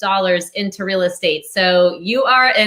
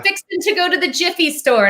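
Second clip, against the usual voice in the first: a higher, mock Southern accent; 8 semitones higher than usual. Host imitates her Southern college roommate, mock Southern accent. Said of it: "which is very Southern".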